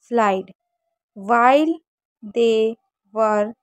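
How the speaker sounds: slow careful reading aloud; slow, careful model reading for students. Shown as a demonstration. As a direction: read it out slowly for the class to follow. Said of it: "मैं आपको सही से reading करा देती हूँ".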